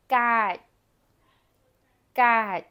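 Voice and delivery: loud "gat", the last sound stopped and never released; unreleased final consonant. Shown as a demonstration. Teacher models a hard ending, "gat" with final left unpronounced. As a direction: set the tongue for the end of "gat" without sounding it. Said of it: "but it is not pronounced in any way".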